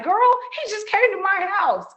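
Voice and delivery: high, bright disbelief to a coworker; excited gossip. Retold or imitated. Telling her coworker about his surprise visit, excited disbelief. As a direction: dish it out like juicy news.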